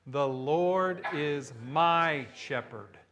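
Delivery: slow, lean on "my"; the preacher gives the psalm's true opening, slowly, stressing "my". Shown as a demonstration. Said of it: "Say that".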